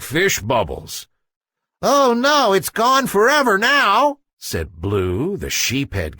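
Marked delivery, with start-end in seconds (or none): 1.8-4.2 high, loud dismay. Acted. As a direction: cry out in dismay. Blue dismayed.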